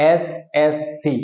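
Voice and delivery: এসএসসি very slow, S, S, C with gaps; letter by letter. Shown as a demonstration. Teacher introducing an abbreviation, এসএসসি spelt out slowly. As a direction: separate each letter of এসএসসি. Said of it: "প্রত্যেকটা অক্ষর আলাদা আলাদা উচ্চারণ করেছি".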